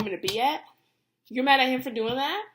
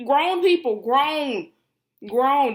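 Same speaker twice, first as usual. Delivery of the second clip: each grown pressed louder and harder; stress on grown; 3 semitones higher, 7 dB louder, much slower than usual. Real, not acted. Stressing grown to angry fans. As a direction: lean into grown, people, grown, grown. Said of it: "that's the emphasis".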